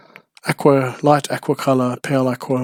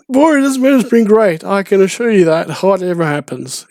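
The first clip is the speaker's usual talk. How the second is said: squeaky Steve voice; 6 semitones higher, 4 dB louder than usual. Retold or imitated. Repeating Steve's catchphrase.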